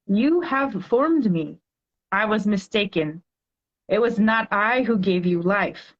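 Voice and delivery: slow, measured poetry recital; poem reading. Acted. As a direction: read it like a heartfelt poem to a child. Reads her poem aloud.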